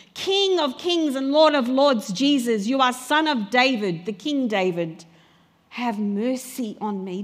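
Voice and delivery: loud opening, easing into a plea; crying out. Acted. Blind beggar hails Jesus as King, crying out. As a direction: proclaim it, then plead for mercy. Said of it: "he cries out to him".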